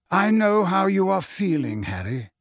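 put-on measured old headmaster, dropping softly on the name; very quiet. A narrator's reading. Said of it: "said Dumbledore very quietly".

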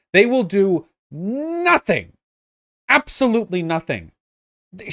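high, heated exasperated ranting; angry rant. Real, not acted. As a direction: tear into her, voice up high. Ranting at VP clip.

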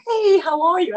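big friendly retold hello; imitated breezy greeting. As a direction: greet heartily, as the caller did. Spielberg comes on the line.

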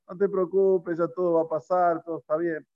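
easy, untroubled retold comfort; offhand reassurance. Comforting someone about another person's child, offhand and unworried. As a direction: brush it off as someone else's trouble. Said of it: "Pero cuando es del otro".

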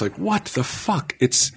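normal talking voice

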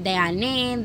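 Diane said as die-ah-NEH; "Diane" stretched to three syllables, ending in eh; name variation. Shown as a demonstration. Host listing names she's been called, Diane ending in eh. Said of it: "a bunch of different variations".

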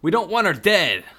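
panicked high yell; screaming. Acted. Bald kidnapper screaming at the gunwoman, panicked. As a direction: bald man shrieking in alarm. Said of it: "a bald man who screamed".

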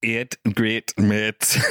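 slow Northern Irish repeat; Northern Irish copy. Shown as a demonstration. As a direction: copy the teacher slowly. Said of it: "repeating the teacher".

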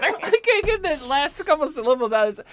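high, helpless laughter through the words; real giggling fit while talking; laughing. Real, not acted. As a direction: try to explain while cracking up. Giggling over failed Danish pronunciation.

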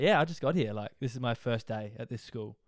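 put-on Australian accent. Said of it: "I sounded super Aussie".

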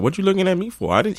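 high defensive whine; imitating the dude. Dude denies it to the girl, high defensive whine. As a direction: whine it back at her. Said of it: "So dude was like".

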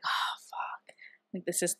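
whispered under the breath, in panic; panicked whisper. Retold or imitated. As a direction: hiss it to yourself so nobody hears. Panicking at the audition.

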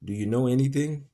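high, loud angry question; angry demand. Acted. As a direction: demand it furiously. Legree demanding.

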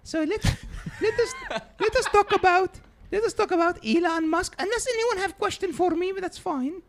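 put-on old immigrant grandmother, broken English; grandma voice. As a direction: play a doting, blunt old grandma. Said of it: "Come on in, Grandma".

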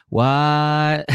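high, drawn-out disbelieving question; hammed-up astonishment, pitched high; mock shock. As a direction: act out a shocked reaction. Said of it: "and we're like".

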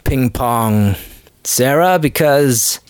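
high, slow put-on fatherly voice; sneaky father. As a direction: drag it out like a sly dad talking his daughter down. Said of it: "It's like".

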